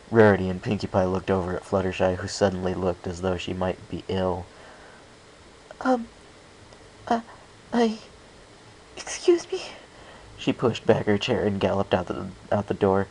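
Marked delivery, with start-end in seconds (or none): 5.8-9.6 whisper. A narrator's reading. Fluttershy upset, about to flee.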